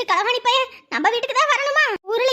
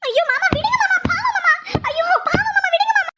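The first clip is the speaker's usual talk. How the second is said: pleading; 4 semitones higher than usual. Acted. Pleading to stop the beating.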